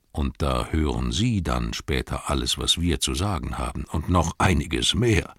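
a hint of a chuckling wizard; Gandalf amused. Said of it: "sagte Gandalf und lachte".

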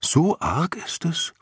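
hohe, langsame, ratlose Frage; zögernd und ratlos nachfragen. A narrator's reading. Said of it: "meinte Jicher ratlos". (hoch und langsam, ratlos fragend)

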